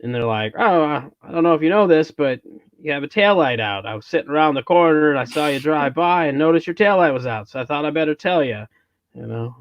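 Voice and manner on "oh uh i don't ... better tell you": lightly put-on Minnesota cop accent; hint of an exaggerated Minnesota lilt. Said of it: "get better at that Minnesota accent".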